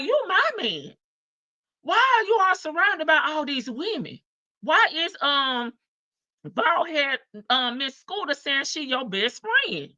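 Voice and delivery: high-pitched, indignant demand; indignant wife. Acted. Wife questioning her man about all these women, indignant. Acting out confronting her husband.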